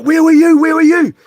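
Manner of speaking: high, loud urgent question; retold high-pitched yell from a friend; excited shout. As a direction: call out like a worried mate. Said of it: "my mate Jason's like".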